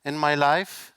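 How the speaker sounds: catching breath between phrases; breathless after climbing steps. Real, not acted. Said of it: "sorry, I'm catching my breath".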